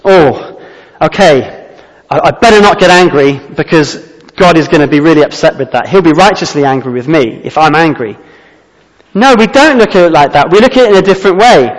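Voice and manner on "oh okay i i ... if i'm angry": fearful grudging obedience. Retold or imitated. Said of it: "we shouldn't think of it like this".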